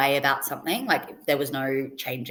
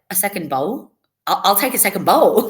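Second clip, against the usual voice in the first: delighted; 3 semitones higher, 7 dB louder than usual. Retold or imitated. Delighted after trying the pasta.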